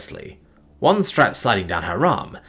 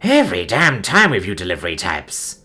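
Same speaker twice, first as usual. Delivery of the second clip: grumbling. Acted. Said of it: "the voice grumbled".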